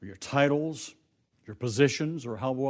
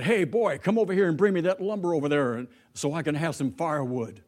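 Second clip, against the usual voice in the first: bossy order; 3 semitones higher than usual. Acted. White man barks an order at Washington. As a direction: order him around like a servant.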